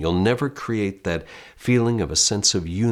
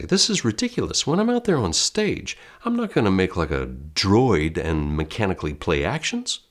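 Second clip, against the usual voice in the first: mildly mock the doubter's protest; skeptical student. Teacher voicing an imagined student who thinks the lesson silly, light mock scoff. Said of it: "I hear you say".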